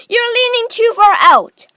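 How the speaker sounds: high, loud warning shout; Mister Gloop. A narrator's reading. Father warning his leaning son, shouting high. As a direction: call out urgently in alarm. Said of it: "shouted Mister Gloop".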